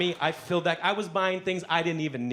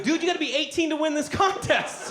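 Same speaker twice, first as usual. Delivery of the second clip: mock incredulous guy; 12 semitones higher than usual. Contest guys voiced.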